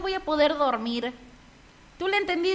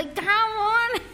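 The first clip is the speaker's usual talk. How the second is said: laughing through the words, pitched up; 8 semitones higher, slower than usual. Real, not acted. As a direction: burst out laughing while saying it. Host laughing at listener's comment. (riendo a carcajadas)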